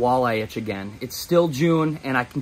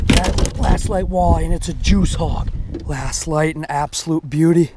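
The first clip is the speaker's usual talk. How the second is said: excited; 3 semitones higher, 4 dB louder than usual. Real, not acted. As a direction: savour the prize, pumped. Admiring caught fish.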